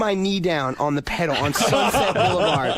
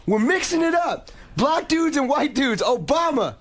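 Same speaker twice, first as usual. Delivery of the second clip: imitating a rapper; 9 semitones higher than usual. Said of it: "And he goes".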